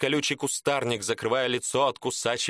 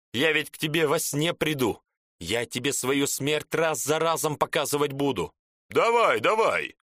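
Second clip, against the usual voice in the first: menacing ghost taunt; 4 semitones higher than usual. Acted. Dead man threatens, taunting.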